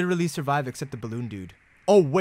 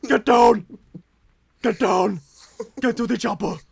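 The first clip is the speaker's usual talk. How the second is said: panicking gamer; 6 semitones higher, 5 dB louder than usual. Acted. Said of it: "movie quote".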